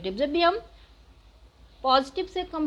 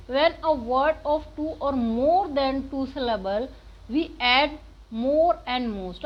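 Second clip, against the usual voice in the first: slow rule reading; much slower than usual. Acted. Teacher reads grammar rule aloud.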